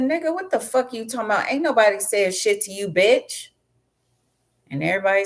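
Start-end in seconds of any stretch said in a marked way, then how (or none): 0.0-3.5 mock indignant retort. Reader snaps back at caller.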